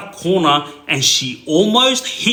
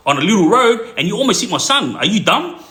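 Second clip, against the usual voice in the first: higher, exasperated retelling; retold angry confrontation; 4 semitones higher than usual. Brother to old lady who nearly hit his son, retold exasperation. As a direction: tell her off in a storyteller's mock outrage.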